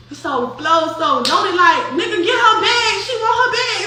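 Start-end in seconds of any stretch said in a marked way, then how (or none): 1.9-3.8 mock irritated order. Lodi snapping at Flo.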